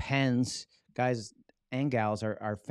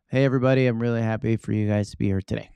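louder, upbeat hello to the room; energetic greeting; 9 dB louder, faster than usual. Shown as a demonstration. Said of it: "very different than".

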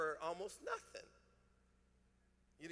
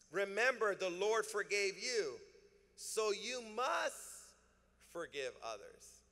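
slow scripture read; 2 semitones higher than usual. Acted. Pastor reads the verse emphatically.

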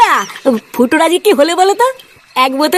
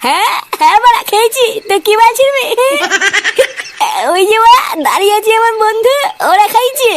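put-on drunk. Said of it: "তুই রাত্রিবেলায় মদ খেয়ে এসছিস?".

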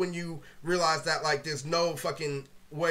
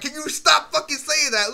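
slow, louder, higher exasperated plea; retold irritation, loud and drawn out; annoyed complaint; 7 semitones higher, 6 dB louder than usual. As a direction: beg him to cut it out, fed up. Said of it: "I'm like".

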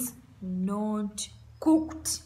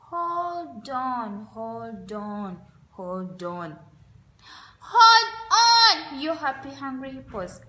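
sweet hippo voice. Acted. Miss Hippopotamus calming the fighting hippo brothers, sweetly. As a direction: soothe them gently, winding down. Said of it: "in her sweet hippo voice".

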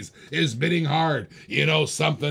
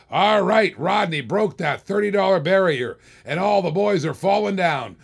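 louder auctioneer hype call; excited hype; 3 semitones higher, 4 dB louder than usual. Real, not acted. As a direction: pump up the room over the big bid. Auctioneer hyping the winning bid.

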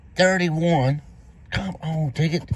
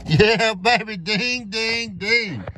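excited celebration; 7 semitones higher, much slower than usual. Real, not acted. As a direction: cheer the win. Winning ticket celebration.

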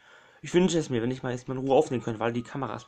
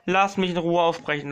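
exasperated plea; 3 semitones higher, 4 dB louder than usual. Real, not acted. Gamer pleading to finish talking undisturbed, exasperated. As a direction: plead firmly to be left alone.

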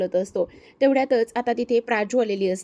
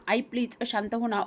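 softer tearful plea; 5 dB quieter than usual. Acted. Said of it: "Praju रडायला लागते".

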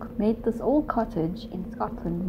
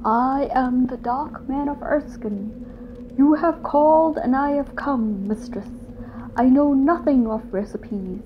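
a lightly voiced grave spirit, louder; the Dark Man; 3 semitones higher, 5 dB louder than usual. Dark Man answering the cook, a hint of grave dignity. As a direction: declare yourself like an old spirit.

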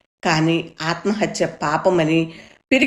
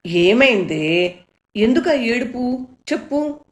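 slow drawn-out question rising higher to a pleading end; anxious mother; 5 semitones higher than usual. A narrator's reading. Mother begs her sobbing daughter to explain, anxious and rising. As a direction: coax her crying daughter with rising worry. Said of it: "అమ్మ గాబరాగా".

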